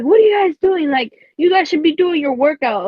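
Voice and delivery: lightly voiced annoyed teacher; retold anger. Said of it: "the male teacher got hella mad".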